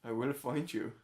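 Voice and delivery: lightly put-on Irish accent; a small attempt at an Irish film threat; Liam Neeson. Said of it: "Liam Neeson".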